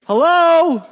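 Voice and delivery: an incredulous Are you serious?; sarcastic hello. Pretend. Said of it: "he probably didn't use that inflection".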